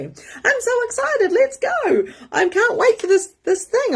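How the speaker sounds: very high mock-excited friend, laughing; fake excitement. Lying friend faking excitement, squealing high. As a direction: ham up a lying friend's enthusiasm. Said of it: "my friend was lying to me".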